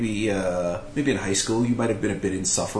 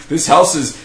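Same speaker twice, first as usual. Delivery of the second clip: mock psychic pronouncement; 7 semitones higher, 8 dB louder, slower than usual.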